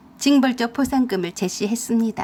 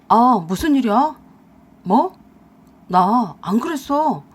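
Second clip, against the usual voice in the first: louder, rattled husband on the phone; panicked phone call; 5 dB louder, slower than usual. Acted. Husband getting bad news by phone, louder and panicked. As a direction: scramble to deny on the call.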